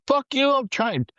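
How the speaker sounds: high, snapping comeback; retold angry retort. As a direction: bite back at the gunner. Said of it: "He's like".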